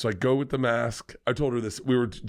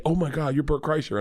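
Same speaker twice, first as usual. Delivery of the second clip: mock starstruck fan; 4 semitones higher than usual. Acting out Whitney as excited fan.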